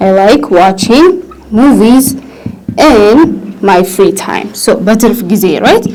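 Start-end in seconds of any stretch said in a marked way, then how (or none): 0.1-4.5 slow, word by word model phrase; teacher reading a model sentence with pauses. Shown as a demonstration. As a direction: spell it out slowly for learners. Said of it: "ማለት ትችላላችሁ".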